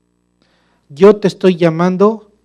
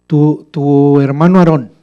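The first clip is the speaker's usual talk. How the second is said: God angry; 5 dB louder, slower than usual. Acted. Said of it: "Dios se enojó y le dijo".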